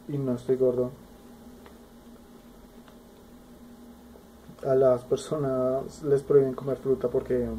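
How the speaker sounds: eating between words; talking while chewing. Real, not acted. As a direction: mouth partly full of food. Seen 1: small inset shows man spooning food to mouth while talking.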